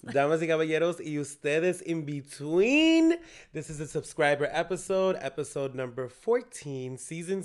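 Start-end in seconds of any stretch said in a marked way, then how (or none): 0.0-3.2 lucha libre announcer. Acted. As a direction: announce it like a wrestling emcee. Announcer-style opening.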